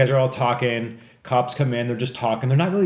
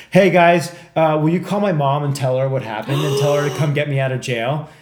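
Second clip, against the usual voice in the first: pleading dealer; 3 semitones higher, 5 dB louder than usual. Retold or imitated.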